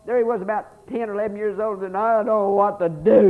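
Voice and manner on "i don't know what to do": lightly voiced scared boy, higher; a child fretting to his mama; voiced little boy. Small boy telling his mother he is lost, lightly voiced.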